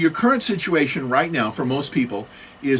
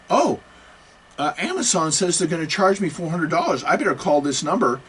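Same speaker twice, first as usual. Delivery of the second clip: mock worried victim; 5 semitones higher than usual. Mocking a worried email victim.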